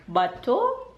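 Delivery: Bateau said the French way, stress on the last syllable; French word. Shown as a demonstration. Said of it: "c'est boat in French".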